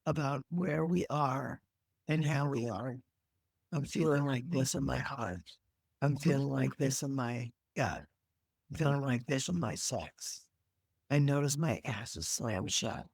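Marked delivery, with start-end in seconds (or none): 3.7-13.1 demo self-report. Shown as a demonstration. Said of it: "This is how we start to tell the truth".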